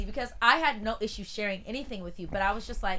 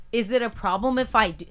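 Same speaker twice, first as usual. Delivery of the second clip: loud, high, exasperated comeback; exasperated retort; 4 semitones higher, 9 dB louder than usual. Retold or imitated. Co-host retells snapping at housemate over the onion, exasperated. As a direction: let the frustration burst out at him.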